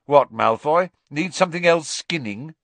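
loud, high taunt; sarcastic jab. Acted. Ron snapping at eavesdropping Malfoy, loud mocking jab. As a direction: snap back mockingly.

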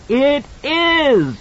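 put-on high, fierce child's shout; boy defying the monster; fierce cry. A narrator's reading. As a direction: throw it back defiantly. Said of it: "Danny cried back at it fiercely".

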